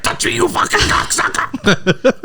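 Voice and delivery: high, strained mobster-boss impression; Hollywood Tony voice. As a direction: squeal it like a sleazy Russian boss. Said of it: "Hollywood Tony impression".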